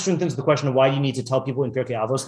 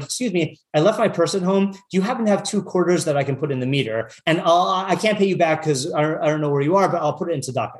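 politely asking a stranger for a favor, slightly raised; mild supplication; 2 semitones higher than usual. Retold or imitated. Woman asks a stranger for meter change, mildly supplicating. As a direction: imitate an apologetic, gently pleading request. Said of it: "in a manner of supplication".

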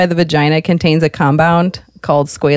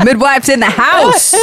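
hype announcement; 7 semitones higher than usual. Pretend. Acting a drunk midwife arriving.

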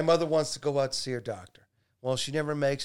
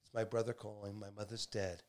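much softer, low, subdued; quiet; 6 semitones lower, 8 dB quieter than usual. Retold or imitated. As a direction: say it quietly, stunned. Retelling quiet announcement at table.

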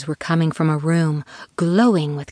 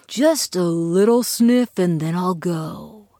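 slow, unconvincing promise; hollow reassurance; slower than usual. Acted. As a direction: say it not believing it. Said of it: "he said unconvincingly".

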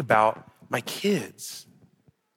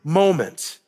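higher-pitched, quick preaching; impassioned preaching; 8 semitones higher than usual. Acted. Preacher to congregation about friends who celebrate with you, impassioned. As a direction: preach it with lifted energy.

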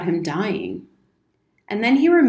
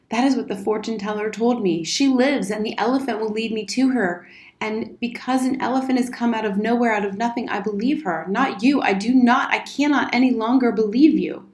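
put-on slightly raised, insistent young speaker; lightly voiced defiant boy; 3 semitones higher than usual. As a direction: plead your belief, then reject him firmly. Boy defies his guardian.

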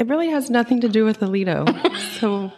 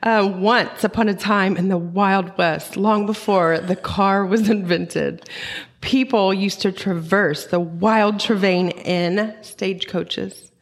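teacher voice. Shown as a demonstration. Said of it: "in my teacher voice".

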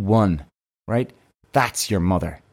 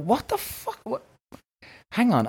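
high-pitched, half-swallowed what the fuck; a sudden jolt of disbelief, then a checking hang on; retold shocked outburst; 11 semitones higher, 6 dB quieter than usual. Telling viewers how he reacted to the agent, mock shocked.

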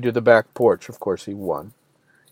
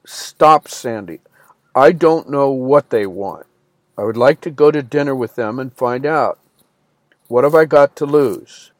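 firm. Retold or imitated. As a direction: cut her off firmly. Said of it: "said firmly".

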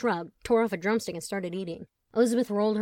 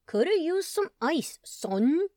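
higher, slow lazy bro voice; slow dude voice; 8 semitones higher, 3 dB louder, slower than usual. Acted. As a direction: drag it out like a dumb jock. Chet voiced, slow drawling.

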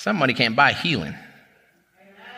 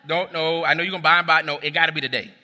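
praying hard; 3 semitones higher than usual. Retold or imitated. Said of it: "I'm praying hard".

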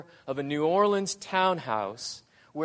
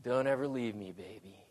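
broken plea; 6 semitones lower, 7 dB quieter, faster than usual. Retold or imitated. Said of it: "all he says is".

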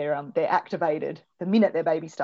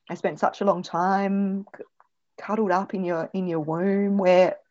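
voicing the baby; 3 semitones higher, 5 dB louder than usual. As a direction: speak as the newborn missing the womb. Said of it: "I might give some ideas like that".

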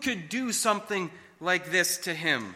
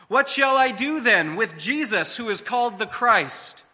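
piercing question; 4 semitones higher, 5 dB louder than usual. Retold or imitated. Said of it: "Pilate's next question pierced the air".

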